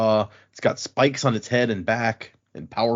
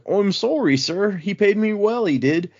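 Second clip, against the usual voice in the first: put-on Irish accent; 7 semitones higher than usual. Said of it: "It's like".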